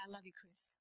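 very soft, tender reassurance; hushed, gentle affection. Retold or imitated. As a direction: say it low and hushed, with love. Hugs him, tells him love.

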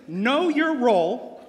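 slow, loud, drawn-out proclamation; dramatic announcement. Acted. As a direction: announce each word like a verdict. Referee announcing the special phrase.

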